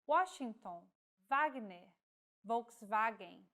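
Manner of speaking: Washington with a U sound, Wagner and Volkswagen with a V sound; careful example words, W as U or V; W as in the original language. Shown as a demonstration. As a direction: read each W the way the source language says it. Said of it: "follows the pronunciation of the language of origin".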